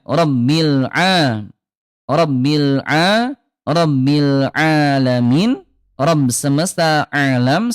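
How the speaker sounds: "Rabbil alamin" slow with a throaty ain; slow Quran recitation. Shown as a demonstration.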